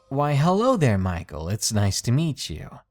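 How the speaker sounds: put-on sing-song baby talk greeting. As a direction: talk down like to a toddler. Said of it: "in a baby talk sort of way".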